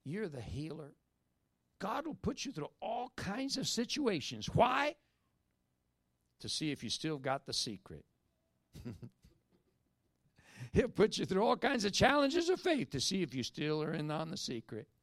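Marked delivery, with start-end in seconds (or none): 1.8-5.0 emphatic build. Real, not acted. Preacher's rising question. 10.7-14.9 loud preaching. Real, not acted.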